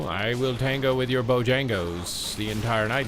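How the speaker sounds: slow, drawn-out toying voice climbing to a high finish; teasing villain taunt. Pretend. Player taunting Death Knight and Shadow Priest, hammed-up slow teasing. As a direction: toy with the enemy in a hammed-up voice, climbing at the end.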